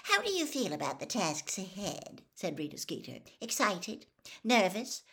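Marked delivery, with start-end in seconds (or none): 0.0-2.2 coaxing gossip reporter, sugary; a reporter wheedling a boy into a scoop; Rita Skeeter voice. Acted. Reporter Rita coaxes Harry, lightly voiced and wheedling. 3.4-5.0 higher, bright prying questions; eager prompting. Acted. Reporter feeds Harry feelings to pick, eager and prying.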